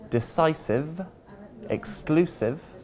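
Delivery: decisive and exclusive stressed on ci and clu, before ive; stress before ending. Shown as a demonstration. Teacher showing the ive ending, stress before it. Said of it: "we generally stress the syllable before the ending".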